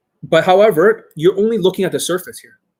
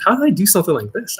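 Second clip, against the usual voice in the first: higher, playful question at normal volume; self-amused; 5 semitones higher, faster than usual. Shown as a demonstration. Dating coach demonstrates self-amusement, playfully self-amused. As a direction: amuse yourself with a lifted, swinging pitch. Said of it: "like, even self-amusement".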